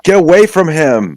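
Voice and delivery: high, loud warning shout; yelling. Acted. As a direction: yell to drive an attacker off a friend. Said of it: "I'll yell at the snake person".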